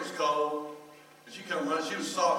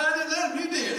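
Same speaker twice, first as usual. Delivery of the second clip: mock defensive father; 14 semitones higher, 6 dB louder than usual. Father answers, high.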